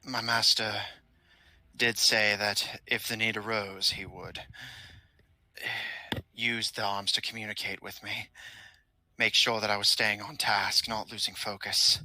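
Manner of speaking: lightly voiced dutiful minion, hesitant; a hint of a polite servant; loyal henchman. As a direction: explain the master's orders in measured, formal phrases. Game master voices loyal henchman.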